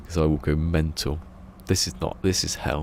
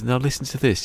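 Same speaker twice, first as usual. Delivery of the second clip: higher, eager build-up; excited setup; 8 semitones higher, 3 dB louder than usual. Retold or imitated. Greg Davies hyping up the taxi story, excited. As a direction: lean in, hyped to share.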